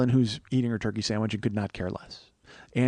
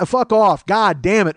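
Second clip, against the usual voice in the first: fed-up cursing; 7 semitones higher, 8 dB louder, slower than usual. Real, not acted. Ranting at fans.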